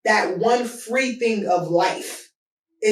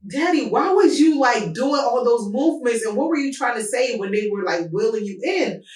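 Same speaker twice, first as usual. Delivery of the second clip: incredulous question to dad; 4 semitones higher than usual. Retold or imitated. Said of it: "And I'm like".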